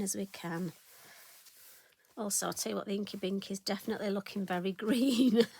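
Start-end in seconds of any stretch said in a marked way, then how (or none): 2.9-5.5 laughing. Real, not acted. Laughs at green ink.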